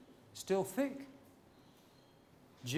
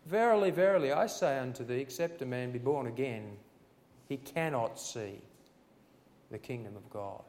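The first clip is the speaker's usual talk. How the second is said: booming scripture quote; 5 dB louder than usual. Acted. Preacher reading Jesus to Nicodemus, booming then hushed. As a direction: proclaim it like Jesus, then drop away. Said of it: "And Jesus answered him and said".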